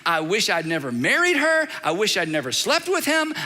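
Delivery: a hint of a weary, frustrated pray-er; frustrated prayer. Shown as a demonstration. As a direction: pour out exasperation in prayer. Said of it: "heart wide open".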